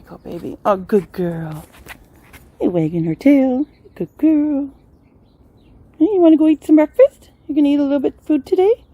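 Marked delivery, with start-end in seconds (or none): 3.9-8.8 talking to a dog. Real, not acted. Praising dog, high voice.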